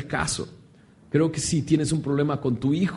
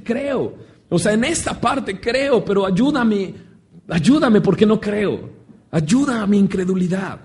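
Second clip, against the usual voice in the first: raised-pitch plea, acted without full shouting; imitated cry; 4 semitones higher than usual. Father begs Jesus to help his unbelief, crying out. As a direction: plead higher, as if crying out. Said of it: "Qué grito, qué increíble grito".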